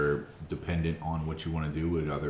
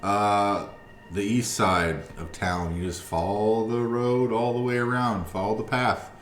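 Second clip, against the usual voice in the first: high, loud, cheery dragonborn greeting; jovial dragonborn; 5 semitones higher, 6 dB louder than usual. Acted. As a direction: boom out a jolly welcome. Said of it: "kinda jovial in his speak".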